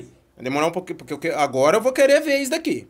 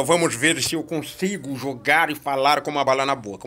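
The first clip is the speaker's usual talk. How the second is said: words round a mint candy; sucking a hard candy; 4 semitones lower than usual. Real, not acted. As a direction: talk with a candy in the cheek. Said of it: "eu estou com uma bala na boca".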